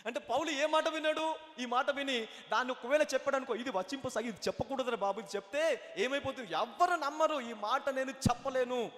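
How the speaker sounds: emphatic sermon delivery, driving to the last word; urgent preacher, drawing out the ending; animated preaching. Real, not acted. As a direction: argue it out from the pulpit. Preaches at full force.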